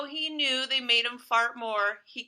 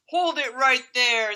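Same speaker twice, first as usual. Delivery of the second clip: police order; 8 dB louder than usual. Acted. Policeman stopping burglars.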